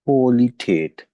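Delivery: क्वालिटेट said slowly, ending -तेट; slow German क्वालिटेट; pronunciation demo. Shown as a demonstration. Teacher to class, German pronunciation. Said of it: "English में हम जैसे कहते हैं ना क्वालिटी".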